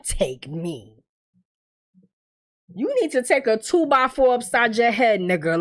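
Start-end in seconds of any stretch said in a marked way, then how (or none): 0.0-1.0 mocking Victor.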